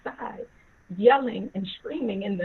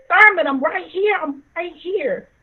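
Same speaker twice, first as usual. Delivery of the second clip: raised, high answering call; urgent calling back; 7 semitones higher, 7 dB louder than usual. Retold or imitated. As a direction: call out to an angry husband, then ease off. Wife answers husband's angry yelling.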